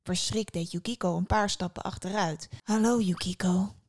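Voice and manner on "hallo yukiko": mildly friendly greeting; a touch of friendly welcome. A narrator's reading. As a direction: greet her kindly. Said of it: "een vriendelijke stem".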